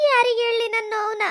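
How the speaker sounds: tearful plea; crying. Acted. Wife with no one to share her pain, crying. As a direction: ask it with a breaking voice. Woman lamenting her lost husband.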